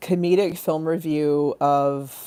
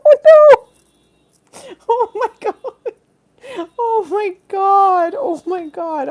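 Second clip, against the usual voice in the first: high drawn-out wail, easing down; mock panic; 10 dB louder, slower than usual. Comedian sure she's going to hell, mock panicked wail. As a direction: wail it slowly, coming down from a shriek. Mock terror at own blasphemy.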